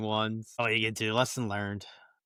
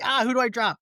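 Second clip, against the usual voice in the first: high-pitched, louder mock-frantic question; retold panic; 12 semitones higher, 5 dB louder than usual. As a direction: blurt it out in hammed-up panic. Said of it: "in a panic".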